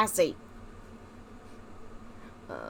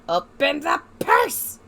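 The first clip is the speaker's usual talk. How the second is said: pleading repeat; 4 semitones higher, much slower than usual. Real, not acted. Repeats demand rising.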